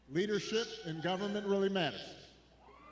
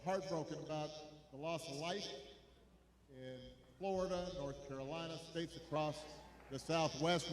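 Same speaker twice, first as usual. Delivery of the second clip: somber; 5 semitones lower than usual. Real, not acted. Mourning storm victims.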